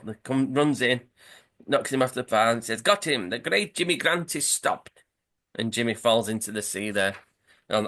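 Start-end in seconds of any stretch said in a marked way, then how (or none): 2.8-5.0 gloating captain. Retold or imitated. Captain gloats after the tackle.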